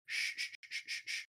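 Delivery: hushed shushing, then a soft warning; finger on lips. Acted. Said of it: "puts his finger to his lips".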